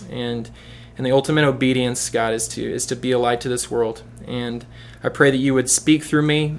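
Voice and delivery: earnest, unhurried public prayer. Real, not acted. Leads a prayer.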